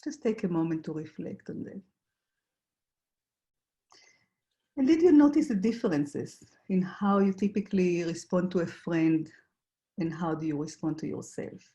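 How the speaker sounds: guided reflection. Acted. Facilitator asks the group to notice their struggles, guided reflection. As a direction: guide listeners inward, leaving room between questions.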